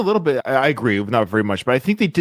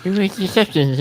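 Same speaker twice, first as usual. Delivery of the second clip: higher, lightly put-on Rocky voice; mock Rocky voice; 6 semitones higher than usual. Host echoes his co-host in Rocky's voice. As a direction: echo the line the way Rocky might. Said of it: "he's using his son's words".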